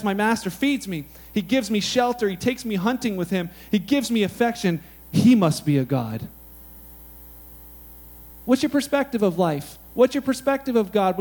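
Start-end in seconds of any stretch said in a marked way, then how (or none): 0.0-6.3 grateful dog, hushed at the end; humble dog voice. Retold or imitated. Preacher voicing a dog, humble and awed. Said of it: "Dog, however, says".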